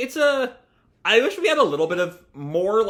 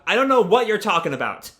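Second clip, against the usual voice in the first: mild mock yell, a little raised; retold yell; 2 semitones higher, 4 dB louder than usual. Sumika answering her sister's apology, mildly yelling back. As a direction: yell back, only half acted. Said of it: "Sumika just yells back".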